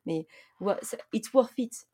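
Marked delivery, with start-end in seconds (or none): 1.1-1.9 put-on French accent. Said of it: "avec mon accent exceptionnel".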